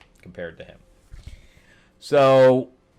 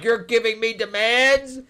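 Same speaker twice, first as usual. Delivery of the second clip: higher, louder indignant voice; offended giant; 11 semitones higher, 4 dB louder than usual. Retold or imitated. Giant Ymir bristling at Sonja's demands. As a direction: take offence at being ordered. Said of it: "And he's like".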